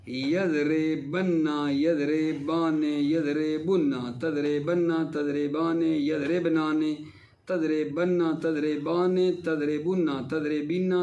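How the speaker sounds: slow, measured paradigm recital; conjugation drill recitation. Shown as a demonstration. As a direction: recite each verb form in rhythm, drawn out. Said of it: "یضرب کی گردان کر رہا ہوں". (ٹھہر ٹھہر کر گردان پڑھنا)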